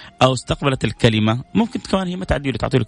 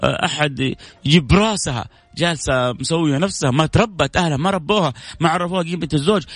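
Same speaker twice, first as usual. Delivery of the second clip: devil whispering; 3 semitones higher than usual. Acted. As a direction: egg him on like the devil. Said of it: "طبعًا الشيطان هنا".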